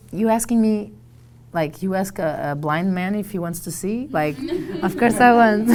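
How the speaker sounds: high, loud, laughing through it; giddy laugh breaking into the words; laughing excitement. Retold or imitated. Laughing as she tells how she took the job.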